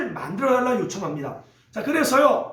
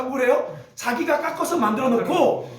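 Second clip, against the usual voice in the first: normal talking voice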